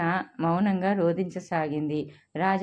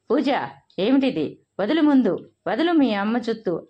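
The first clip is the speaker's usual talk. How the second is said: raised, urgent voice breaking up a fight; alarmed shout; 3 semitones higher, 4 dB louder than usual. Acted. Father shouting at daughter to let go of her mother, alarmed. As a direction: shout them apart, higher and louder.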